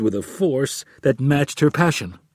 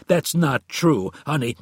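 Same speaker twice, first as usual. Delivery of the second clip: protesting denial; 5 semitones higher, 4 dB louder than usual. A narrator's reading. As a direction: plead innocence to your wife. Husband protests wife's accusation.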